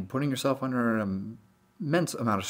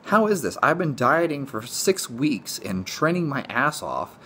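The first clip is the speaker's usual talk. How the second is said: exasperated disbelief; 5 semitones higher, 4 dB louder than usual. Retold or imitated. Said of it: "It's like".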